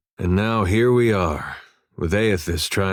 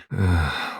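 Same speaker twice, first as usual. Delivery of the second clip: weary sigh; 3 semitones lower than usual. Acted. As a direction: sigh in dismay. Dismayed at the mess described.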